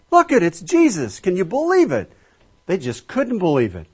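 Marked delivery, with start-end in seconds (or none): 0.1-2.1 excited disbelief. Retold or imitated.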